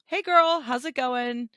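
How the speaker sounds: high, bright mock girl talk; chirpy put-on hey girl; girly greeting. Imitating girls greeting each other with a high mock hey girl.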